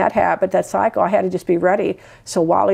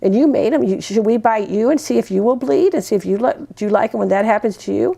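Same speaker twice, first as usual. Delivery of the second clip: mild mom scolding; 3 semitones higher than usual. Retold or imitated. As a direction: lightly act the firm but loving mother. Mom scolding the biting toddler.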